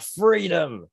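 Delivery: triumphant mock shout of freedom; mock freedom cry. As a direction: belt it out like a battle cry. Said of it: "wanted to throw my hands up in the air and shout out".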